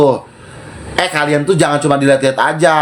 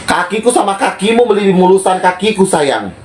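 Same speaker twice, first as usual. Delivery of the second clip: retold taunt; 4 semitones higher than usual. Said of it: "Aku bilang gitu".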